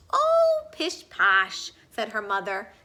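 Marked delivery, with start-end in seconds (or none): 0.1-1.7 very high, loud scoff; high loud pish posh; dismissive. Acted. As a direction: brush it off fondly.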